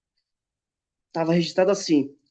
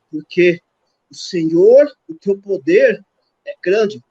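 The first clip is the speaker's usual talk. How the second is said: fervent prayer; 4 dB louder than usual. Retold or imitated. Retold fervent prayer for healing.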